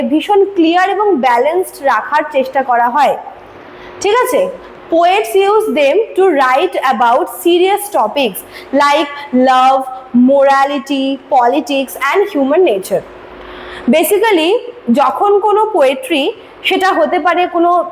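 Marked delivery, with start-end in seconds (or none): 4.9-13.0 reading notes aloud slowly for students to copy; slow, measured English dictation, word by word. Shown as a demonstration. (ধীরে ধীরে dictation দেওয়ার ভঙ্গিতে পড়া)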